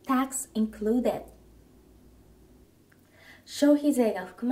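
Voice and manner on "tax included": slow repeat for learners; slow model phrase. Shown as a demonstration. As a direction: model it once more, slowly. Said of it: "消費税が含まれています。". (ゆっくり繰り返す見本)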